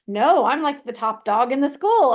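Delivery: imitating a child's self-assured comeback; confident kid retort. Daughter brushing off mom's question about fifth grade, confident.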